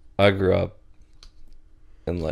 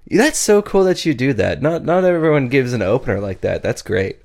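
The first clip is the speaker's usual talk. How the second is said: higher, gushing fake-polite girl voice; impressed girl; 6 semitones higher, 3 dB louder than usual. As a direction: play her as politely impressed, a bit overdone. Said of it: "And she's just like".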